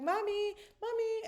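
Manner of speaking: put-on high child call. Daughter calling for mommy, high pitched. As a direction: call out like a little girl waking. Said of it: "She's like".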